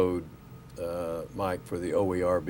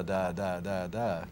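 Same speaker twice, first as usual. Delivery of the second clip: Daffy Duck impression; 5 dB quieter, slower than usual. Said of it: "It's my Donald Duck impression".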